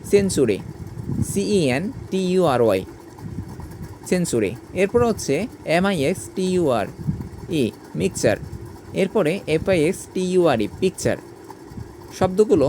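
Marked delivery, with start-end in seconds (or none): 0.1-0.6 "সেঞ্চুরি" as sen-chu-ri; "সেঞ্চুরি", TU sounded as chu. Shown as a demonstration. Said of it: "টির উচ্চারণ চ হয়েছে". 8.0-8.4 "মিক্সচার" as miks-char; "মিক্সচার", TURE sounded as char. Shown as a demonstration. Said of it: "টির উচ্চারণ চ হবে". 10.8-11.2 "পিকচার" ending in char; "পিকচার", TURE sounded as char. Shown as a demonstration. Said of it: "টির উচ্চারণ চ হবে".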